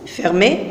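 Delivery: fermé with a closed é at the end; teacher self-correction on fermé; corrected to fermé. Shown as a demonstration. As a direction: fix ferme to fermé. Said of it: "le E ferme".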